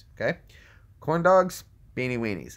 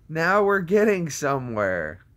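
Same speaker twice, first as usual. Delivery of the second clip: raised voice gliding back down; milder mock triumph; 4 semitones higher, 4 dB louder than usual. Streamer repeating the line to chat, milder mock triumph. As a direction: say it moderately high, then let it fall.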